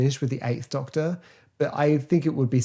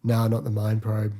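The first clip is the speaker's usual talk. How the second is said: bored. Retold or imitated. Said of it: "he gets bored halfway through saying it".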